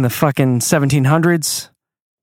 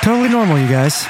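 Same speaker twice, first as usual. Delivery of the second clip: sarcastic; 4 semitones higher, faster than usual. Real, not acted. Sarcastic reaction to chant.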